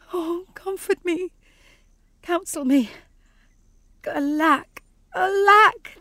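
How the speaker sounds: soft, broken plea; despairing. Acted. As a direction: plead softly in despair. Daughter despairing to nurse.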